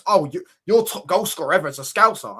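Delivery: lightly imitated rival fan's flex; mock bragging. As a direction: throw it out like a mild mock boast. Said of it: "they love doing it as a flex".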